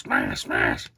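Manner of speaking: low goofy figure voice; Morph voice. Pretend. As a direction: growl out the smashes as the figure. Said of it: "I'm just making him like that".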